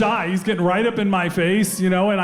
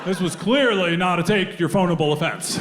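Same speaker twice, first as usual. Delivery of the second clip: a lightly voiced lawyer pleading to the judge, laughing through it; mock courtroom plea. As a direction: play at addressing the court, half-joking. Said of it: "You hear that one standing up in court".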